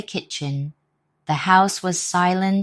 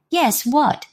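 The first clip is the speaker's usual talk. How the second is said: eager asking; 9 semitones higher, 4 dB louder than usual. Acted. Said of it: "asked the others".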